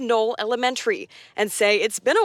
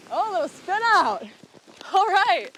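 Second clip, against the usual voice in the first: sledding downhill; 6 semitones higher than usual. Real, not acted. End of sled run.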